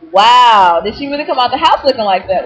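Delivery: loud "Wow" in disbelief, then scornful. Retold or imitated. Judging the waitress's hairstyle, loud scornful disbelief. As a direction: let the wow burst out.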